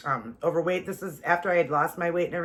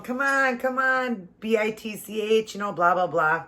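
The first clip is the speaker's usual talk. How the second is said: high, jeering dare; taunting drunk woman; 5 semitones higher, slower than usual. Retold or imitated. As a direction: goad her into a fight. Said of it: "the girl's going".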